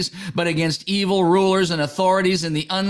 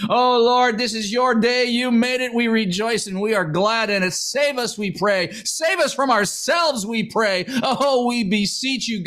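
prayer. Acted. Preacher leading morning prayer, earnest prayer voice. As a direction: pray it aloud, calling on the Lord. Prays for strength and rescue.

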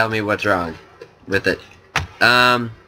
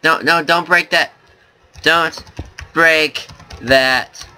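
urgent plea; 4 semitones higher, slower than usual. Real, not acted. Pleading not to break block.

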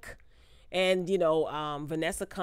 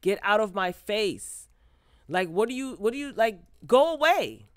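pretend telling off; 4 dB louder than usual. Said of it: "ready for Twist to slap him".

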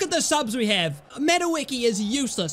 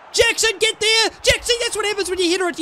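high, urgent yell; loud, high scolding of a teammate; frustrated shout; 10 semitones higher, 4 dB louder, faster than usual. Real, not acted. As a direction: shout at your player in frustration. Yelling at player who misses.

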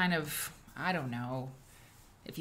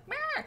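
mock bleat; 3 dB quieter than usual. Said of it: "flood the chat with like".

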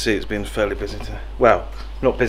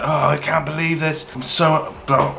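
mildly frustrated mock whine, higher pitched; imitated frustration; 5 semitones higher than usual. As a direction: imitate a worked-up customer without raising volume. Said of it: "really frustrated by it, like, shaking".

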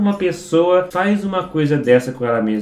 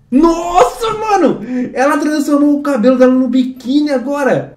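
amazed exclamation; 7 semitones higher than usual. Real, not acted. Amazed by hair bikini video.

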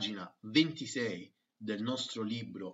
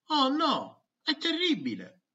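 higher, hammed-up oh no; mock dismay; 14 semitones higher, 7 dB louder than usual. Pupil groaning about science day, in Italian. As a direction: play up the despair.

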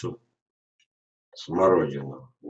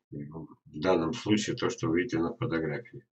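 ordinary talk, nothing marked

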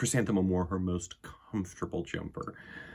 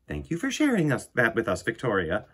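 teacher; 2 semitones higher, 4 dB louder than usual. Acted. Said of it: "said Missus Chud".

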